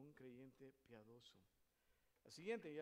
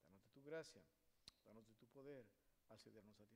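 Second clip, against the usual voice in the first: earnest spoken prayer to God; leading prayer. Real, not acted. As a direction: congregational prayer, thankful then pleading. Leads the congregation in prayer.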